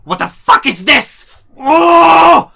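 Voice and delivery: high, loud mock outrage; imitated angry mom. Mom comes home and finds the box, outraged. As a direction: shriek it like a furious mom. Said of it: "She's so angry".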